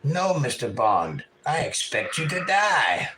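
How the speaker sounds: slow, menacing villain drawl; a light take on a Bond villain. Retold or imitated. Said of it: "Sound like a Bond villain".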